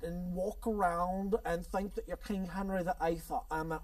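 lightly hammed mock English accent; playful, poor English accent; bad English accent. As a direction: badly fake an English accent. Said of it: "speaking a bad English accent".

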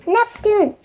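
high-pitched calling of a name; shout. A narrator's reading. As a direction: call out to summon someone far away. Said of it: "shouted Annie".

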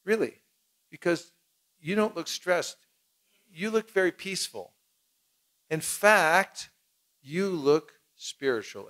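lightly admiring compliment, drawn out; mock flattering. Distributor flattering a passerby, mildly admiring. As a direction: praise them gently to win them over. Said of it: "And then I'll say".

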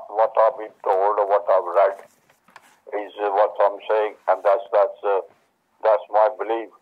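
ordinary talk, nothing marked

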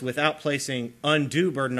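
a light emphasis on "undue"; stress on undue. Shown as a demonstration. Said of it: "with an emphasis on the word undue".

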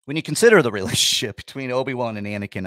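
fast, breaking into a laugh; real giggle at himself; laughing restart. Real, not acted. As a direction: rush it through a chuckle.

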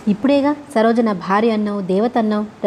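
plain reading voice

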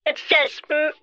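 drawn-out, high wail that falls away; tearful wail. Pretend. Distraught victim wailing to the scammer, tearful. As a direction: wail it slowly, stretching out the vowels.

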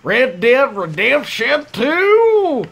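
playful attempt at a Western cowboy accent; put-on cowboy accent. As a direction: ham up your best cowboy accent. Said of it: "It's my best accent".

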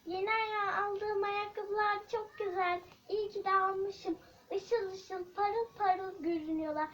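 a hint of a pleased, vain young girl; vain girl character. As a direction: preen and brag to yourself, humming. Vain girl sings and brags.

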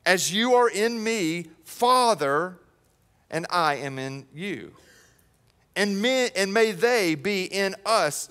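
slow, solemn prayer reading; reading scripture. Acted. Pastor reading Jesus' prayer to the church, slow and solemn. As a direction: read it like a prayer. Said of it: "he says".

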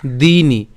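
"দিনি" with a pressed, drawn-out first i; stressed dee in "দিনি"; pressed long vowel. Shown as a demonstration. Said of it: "একটু চাপ দিতে হবে".

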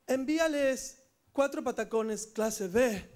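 slow, measured command; villain giving orders. Acted. Villain telling Jonathan what to send, slow command. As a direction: spell out the order slowly and evenly.

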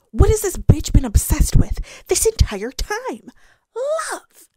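loud, high exasperated outburst. Real, not acted. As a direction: throw the question out in disbelief. Exasperated rant about the villain.

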